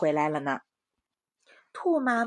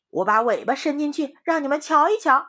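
a hint of a sly wolf; 6 semitones higher, 7 dB louder than usual. A narrator's reading. Wolf agrees slyly.

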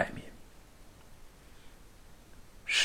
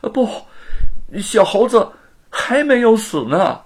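hurried protest; 8 semitones higher, 5 dB louder than usual. A narrator's reading. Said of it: "连忙说".

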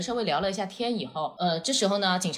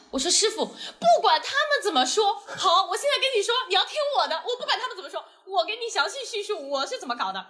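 raised voice, laughing through the words; half-laughing, replaying own earnest plea; laughing retold plea; 9 semitones higher than usual. Telling the traffic officer her side, laughing.

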